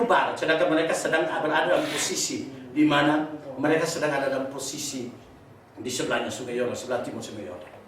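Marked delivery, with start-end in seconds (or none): none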